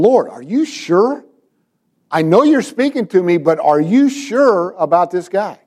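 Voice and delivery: acted doubt, leaning on the question; politely incredulous questioning; doubtful pleading. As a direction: imitate a reluctant servant double-checking. Ananias doubting the Lord again.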